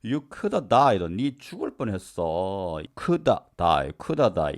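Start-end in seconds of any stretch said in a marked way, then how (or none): 0.0-1.0 slow, raised sentence; slow example read. Shown as a demonstration. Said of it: "example sentence read slowly". 3.0-4.5 "Coulda die" said as a quick "kuda"; coulda reduction. Shown as a demonstration. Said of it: "이렇게 발음하시면 되겠습니다".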